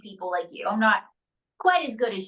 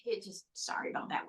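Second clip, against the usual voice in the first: whisper; 2 semitones lower, 13 dB quieter, faster than usual. Real, not acted. Quick aside apology to host.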